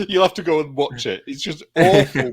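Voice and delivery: high, giggly recommendation; laughing. Real, not acted. Co-host tells friends to go and watch it, laughing. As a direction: talk through the tail of a laughing fit. Laughing too hard to retell.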